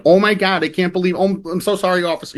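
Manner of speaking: hammed-up, high apologetic voice; code-switched apology. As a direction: play up a flustered apology after being pulled over. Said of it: "everyone code switches".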